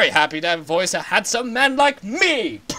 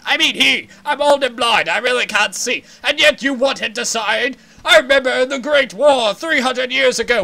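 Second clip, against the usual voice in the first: put-on higher, louder cranky old man; a shouting old advisor, indignant; ranting old Zora elder; 6 semitones higher, 5 dB louder than usual. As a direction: bluster like an outraged elder.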